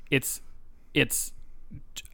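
ordinary talk, nothing marked

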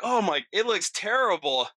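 high-pitched, hammed-up alarm; horrified blurt. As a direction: imitate a friend freaking out at a wound. Friend blurts horror at the wound.

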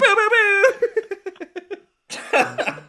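loud, high mock booing. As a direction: boo them off the stage. Booing the pitch.

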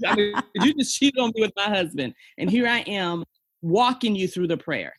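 high, loud amazed outburst; can you believe this, said in laughing awe; incredulous disbelief. Real, not acted. To the host about praying with the mistress, incredulous and high. Marvelling at forgiving husband's mistress.

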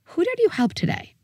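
put-on high, bright-eyed question to a little kid; eager parent asking. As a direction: ask it like a keen parent at the table. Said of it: "I'm gonna go ask my four-year-old".

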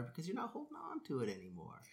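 unvoiced whisper; whispered aside. Real, not acted. To the host about apologizing, a confiding whisper. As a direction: share it as a hushed secret.

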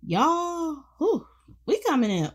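high, loud hyped-up call to y'all. Real, not acted. Podcast host hyping listeners for the new year, high and loud. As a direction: fire up the audience for the new year.

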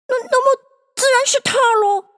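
very high, quick character voice; high storybook bird voice, hesitant at the start; Dodo's ruling. Acted. Dodo names the prize giver, story.

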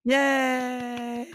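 put-on squeaky over-the-top party girl cheer; giddy party girl. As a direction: play a bubbly party girl. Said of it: "your party girl voice, Jesse, is killing me today".

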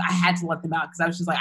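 ordinary talk

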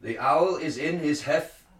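Shakespearean actor. Shown as a demonstration. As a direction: declaim it like a stage actor. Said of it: "I'll read it like a, like a Shakespearean, um, uh, actor".

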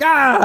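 sudden high shriek of fright; mock scream. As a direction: shriek like you just got startled. Scared by shark, screams.

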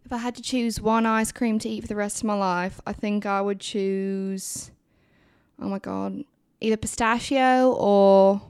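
put-on a light, wavering British accent that keeps slipping; attempted British accent. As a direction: answer like a nervous Brit trying to hold the accent. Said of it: "in a British accent".

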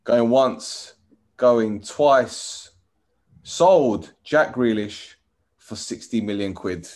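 slow, drawn-out auction call; auctioneer. Acted. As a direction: bring the hammer down slowly. Auctioneer closing the sale.

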